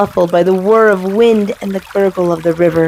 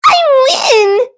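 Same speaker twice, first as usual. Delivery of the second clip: gloating. Acted. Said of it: "said Thistle".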